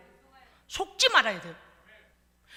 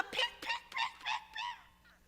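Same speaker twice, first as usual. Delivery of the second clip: high, soft ping ping mimicry; ping it out high and light; high ping sounds; 8 dB quieter, much slower than usual. Preacher mimicking hurts bouncing away, high soft pings.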